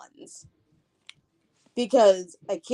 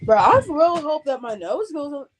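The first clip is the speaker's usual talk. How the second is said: frustrated shout; 2 semitones higher, 4 dB louder than usual. Real, not acted. Frustrated about clogged nose.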